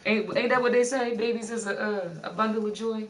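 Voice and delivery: loud, high, hammy blessing; mock preacher blessing. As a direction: bestow it like a preacher. Mock blessing of pregnancy dust.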